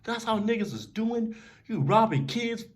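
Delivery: high, slow indignant complaint; hurt outrage. Retold or imitated. Robbed kid complaining about the getaway, high slow indignant voice. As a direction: let the hurt and outrage spill out. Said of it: "I'm like".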